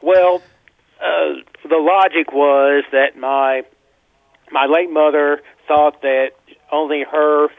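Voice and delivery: caller on a landline; phone line sound, narrow and thin; over a landline phone. Real, not acted. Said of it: "I am actually calling you from a landline".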